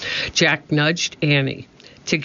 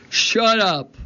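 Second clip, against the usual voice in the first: higher mock roar at the crew; mock pirate roar; 8 semitones higher than usual. A narrator's reading. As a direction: snap at your crew. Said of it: "roared at his men".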